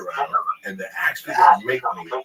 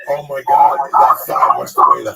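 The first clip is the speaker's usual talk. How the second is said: straining shout; 3 semitones higher, 6 dB louder than usual. Retold or imitated. Straining to lift himself out.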